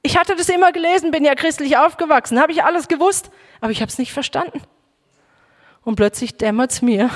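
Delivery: ordinary talk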